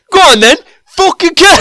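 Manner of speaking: high, loud mock yell; imitated shouted dare. Friend mimicking a player goading killers, loud and high. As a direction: yell it out like a reckless challenge.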